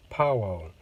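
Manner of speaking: "파워" said the Korean way, between Japanese and American; middle-ground Korean-style "파워"; Korean pronunciation. Shown as a demonstration. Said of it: "우리나라는".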